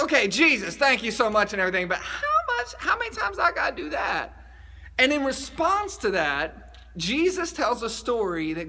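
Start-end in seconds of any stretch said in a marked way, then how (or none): 0.0-4.3 exasperated plea. Retold or imitated. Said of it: "but he's like".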